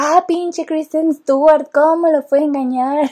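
slow, drawn-out mock outrage; mock angry rant. Fan scolding Kristen Stewart for cheating, slow mock anger. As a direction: grumble slowly like a jilted fan. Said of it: "me la pasé enojada".

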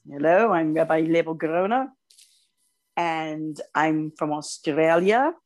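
imitating an Australian rabbi; lightly put-on Australian accent, measured pace. Visiting rabbi introduces himself to the students, mock Australian accent. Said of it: "with his Australian accent".

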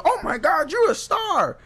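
loud, high-pitched fan gushing; mock starstruck. Someone hears of his TV show, loud mock starstruck gushing. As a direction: squeal it like an imitated admirer.

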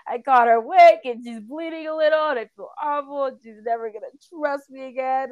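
wailing out a mock tearful confession; reenacted distraught outburst; retold bawling. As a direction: blurt it out high and upset. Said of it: "I was just crying".

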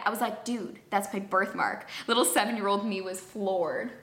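even, measured reading of an anecdote; scripted first-person storytelling; story read aloud. Acted. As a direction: read the story out neatly, line by line. Reads a submitted story aloud.

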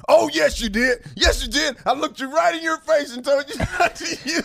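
mock the driver scolding; hammed-up indignant driver; imitating the bus driver. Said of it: "He said".

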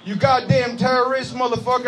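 high-pitched mock redneck outburst. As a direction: heckle like a hammed-up redneck. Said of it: "at least a redneck will be like".

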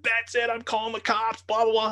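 high, loud imitation of an outraged threat; mock furious woman. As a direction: mimic her ranting at the top of the range.

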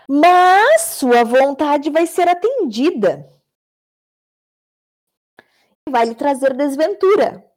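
slow words stretched by a yawn; reading through a yawn. Real, not acted. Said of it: "bateu um bocejo".

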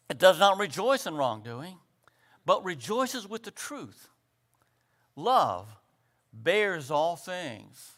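phrase-by-phrase scripture reading; slow, deliberate reading. Shown as a demonstration. Preacher reading Corinthians so each phrase sinks in, slow reading. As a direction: read it out with a pause after each phrase. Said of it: "I'm gonna read it slowly".

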